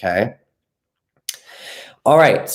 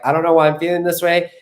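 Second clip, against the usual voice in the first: imitating a bewildered partner, pitched higher; confused partner; 6 semitones higher than usual. Coach mimics a partner who can't explain his feelings, high and puzzled. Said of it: "that they're like".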